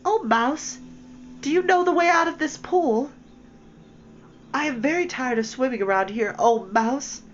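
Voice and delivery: put-on high, formal little-girl address; Alice addressing the mouse. A narrator's reading. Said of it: "So she began".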